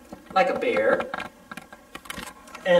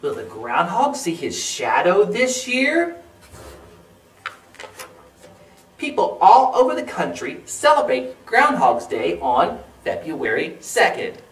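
put-on measured picture-book reading for children; read-aloud narration. A narrator's reading. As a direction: read clearly, with careful phrasing. Reads a factual book.

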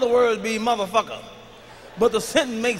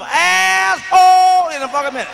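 mock white yell; 8 semitones higher, 7 dB louder than usual. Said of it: "like a white person".

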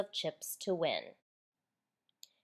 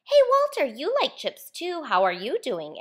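much higher, louder hail across the room; calling out; 6 semitones higher, 6 dB louder than usual. A narrator's reading. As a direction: call out to Walter, then settle. Calling out to Walter.

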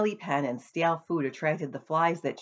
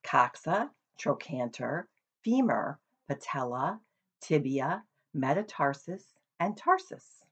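a careful repeat of a list of names; names said again. Acted. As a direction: spell out each name carefully for him. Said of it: "Say those names again".

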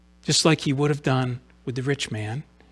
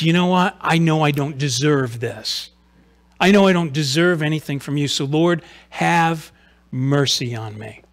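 mildly raised, pleading appeal; appealing cry; 4 dB louder than usual. Acted. Blind man admits he doesn't deserve it, appealing cry. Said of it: "his initial cry to Jesus".

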